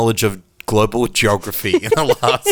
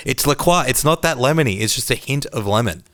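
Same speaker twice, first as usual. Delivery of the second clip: mild, higher-pitched yelled protest; mock yell; 5 semitones higher than usual. Quoting Greg correcting someone about lemonade, mild mock yell. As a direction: yell it half-heartedly, pitch easing down to normal. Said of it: "he yells out".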